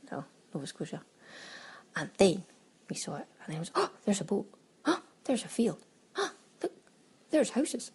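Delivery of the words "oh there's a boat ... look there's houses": mock wonder. Mimics wide-eyed plane watcher.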